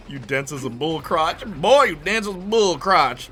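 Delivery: hammed-up Brooklyn accent, punchy; mock Brooklyn trash talk. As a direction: do an incredulous Brooklyn put-down. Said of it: "In the Brooklyn accent, too".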